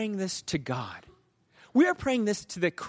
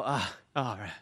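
low, soft resigned reply; meek acceptance; 8 semitones lower, 6 dB quieter than usual. Retold or imitated. Driver yielding to the officer's lecture, meekly. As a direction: give in quietly and low.

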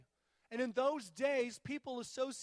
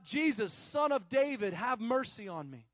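calling out; 6 dB louder than usual. Retold or imitated. Blind beggar calls out to Jesus, calling out. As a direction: imitate a blind beggar's call, mildly loud. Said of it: "That he begins to call out".

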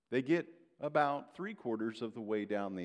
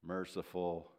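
ordinary talk

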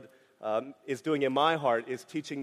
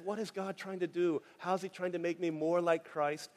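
softer trusting question; 5 dB quieter than usual. Pretend. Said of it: "if we can ask".

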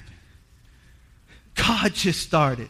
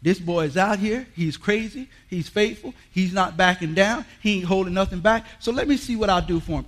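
voicing God; 4 dB quieter than usual. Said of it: "So God said".

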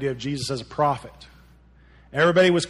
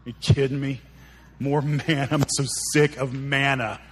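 mock fed-up complaint; put-on disgusted grumble; grumbling; 2 semitones lower than usual. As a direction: gripe like someone sick of the same meal. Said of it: "that these people are grumbling".

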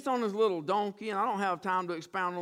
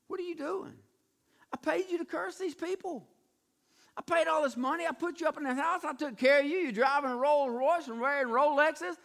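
exasperated; 5 semitones higher than usual. Acted. King scolding the prophet he paid, exasperation building. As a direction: build from hushed disbelief to indignation. Balak protesting to Balaam, building.

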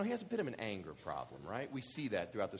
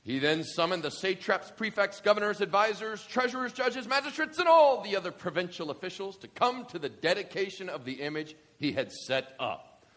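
dramatic scripture reading; 6 semitones higher, 8 dB louder than usual. Acted. Reads scripture aloud.

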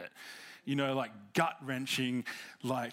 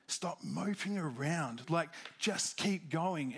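voice of God; 2 semitones higher than usual. Retold or imitated. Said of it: "what God said to me was like".

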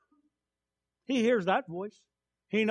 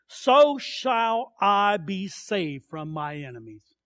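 emphatic scripture reading in short phrases; psalm declamation; 3 dB louder than usual. Acted. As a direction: proclaim each title with conviction.

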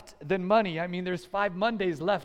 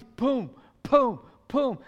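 punchy mimicked blows; imitated punches; 3 semitones higher, 4 dB louder, slower than usual. Preacher acting out Rocky's fight for the congregation, punchy. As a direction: sound out each blow separately.

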